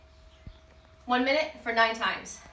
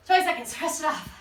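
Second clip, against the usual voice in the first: winded after burpees; out of breath; 2 semitones higher than usual. Real, not acted. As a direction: speak between heavy breaths. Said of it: "makes the breathing harder".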